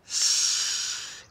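whispered shh, very soft; hushing whisper. Acted. Princess hushing the baby near the rabbits, whispered. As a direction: hush them so the rabbits stay calm.

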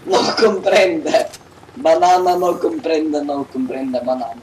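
hammed-up fake Spanish accent; talking to a foreigner. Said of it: "now you're just racist".

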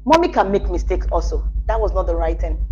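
gentle, low-pitched admission; calm apology. Shown as a demonstration. Mommy admitting a mistake to her child, calm low apology.

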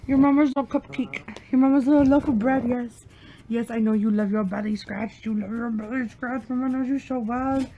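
fast cooing pet talk. Real, not acted. Owner coos fast at her dog. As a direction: coo at the puppy.

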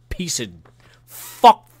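loud, high burst of frustration; frustrated outburst. Real, not acted. Ranter running out of insults, frustrated outburst. Rant ends in a frustrated curse.

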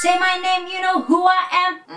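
"Say" and "who" accented, slightly harder; stress on say and who. Shown as a demonstration. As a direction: punch "Say" and "who" for groove. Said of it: "みたいな感じ". (「Say」と「who」にアクセントを強く)

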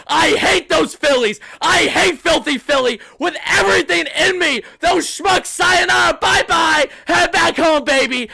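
high, shouted rant at the rival team; unhinged gloating. Real, not acted. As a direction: let loose with gleeful spite. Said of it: "time for a little bit unhinged Wardy".

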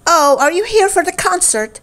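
high, bright conductor; frog conductor voice. Acted. Conductor spinning round to the newcomers, surprised. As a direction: greet the crash-landers brightly.

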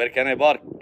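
PARK turned into "bark"; Arabic-accented park, b for p; mispronounced English. Acted. Repeating the learner's question, mispronounced English. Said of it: "بارك اللي أنت قلتها دي يعني هوهو".

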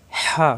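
হা squeezed through the throat; long, tight Arabic হা; pressed throat h. Shown as a demonstration. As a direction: press the throat for a strong breath on হা. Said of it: "কণ্ঠনালীতে চাপ".

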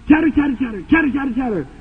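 rapid-fire imitated squirrel chatter; lightly mimicked squirrel noise; chattering pine squirrel. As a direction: rattle it off like a scolding squirrel. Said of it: "I never heard such a noise".

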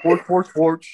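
mock Swedish accent gibberish; goofy sing-song Swedish accent; Swedish Chef. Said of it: "The Swedish chef".

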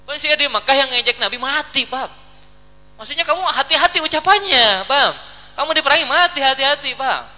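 mildly urgent, pitch lifting on the warnings. Acted. Brother warns Ka'ab about his words, urgent warning. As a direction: drive the caution home, lightly acted.

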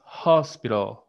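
hospital with a breathy, aspirated H at the start. Shown as a demonstration. Teacher showing the class an aspirated H in hospital. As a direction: give hospital a clear puffed H sound. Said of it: "aspirada la H".

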